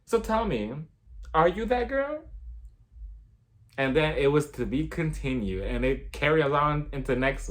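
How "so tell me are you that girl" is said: relaxed Crystal. Retold or imitated. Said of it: "Crystal's just so relaxed".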